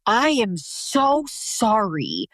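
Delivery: sorry to daughter. Retold or imitated. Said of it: "And I said, I was like".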